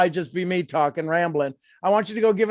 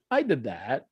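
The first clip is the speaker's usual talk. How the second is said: said lower and much softer, almost to herself; soft affirmation; 8 semitones lower, 6 dB quieter than usual. Shown as a demonstration. Coach quietly models the affirmation for her client, softly. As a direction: breathe I did that quietly, inward.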